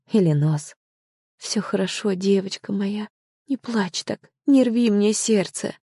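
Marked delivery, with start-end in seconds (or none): 1.4-5.8 tearful comfort. Acted. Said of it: "Мама тоже плакала".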